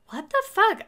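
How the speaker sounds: high, startled what the fuck; stunned at husband's rude line; shocked outburst. Retold or imitated. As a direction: recoil in disbelief.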